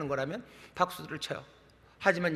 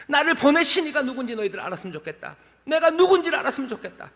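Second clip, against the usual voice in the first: imitated cry of appeal, rising higher; 7 semitones higher, 5 dB louder than usual. Jesus appealing to the unbelieving crowd, crying out. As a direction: cry out to be recognised, pitch climbing. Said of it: "그거 외침입니다".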